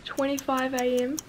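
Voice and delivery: hushed early-morning voice; quiet. Real, not acted. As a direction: keep it soft, others asleep. Early morning, others sleeping.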